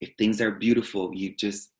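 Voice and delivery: hushed, soft imitation of forced seriousness; a hushed mock of the solemn teacher; mock serious monk voice. Mocking solemn teachers with a hushed, soft imitation. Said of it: "this, like, very forced seriousness".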